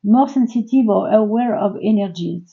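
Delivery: reading English with a strong French accent; English words in plain French-accented sounds. Real, not acted. Tarot reader reads an English card text aloud, French accent. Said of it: "pardon pour mon accent un petit peu bizarre".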